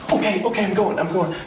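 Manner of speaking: high-pitched, flustered giving in; mock panicked compliance. Customer being pushed out, scared.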